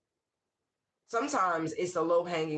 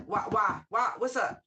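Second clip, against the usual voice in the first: blunt, confrontational why; aggressive challenge. Retold or imitated. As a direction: push back hard, demanding an answer. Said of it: "it sounds very aggressive".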